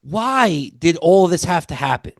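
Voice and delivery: high-pitched, mock-incredulous questioning; baffled disbelief. Viewer reacting in their head to the plot, baffled disbelief.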